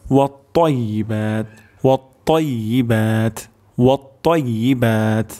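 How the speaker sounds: ওয়াত্তাইয়িবাত with a thick, heavy ত; heavy emphatic ta. Shown as a demonstration. Teacher drills students on the heavy ত in ওয়াত্তাইয়িবাত. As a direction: darken the ত in ওয়াত্তাইয়িবাত. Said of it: "তর উচ্চারণটি মোটা হবে".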